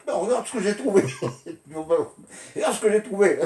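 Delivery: put-on high, eager child's voice; excited kid showing off. Boy proudly showing his mother his find, excited and high. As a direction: proudly show mom a find. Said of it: "il s'est dit à ma mère".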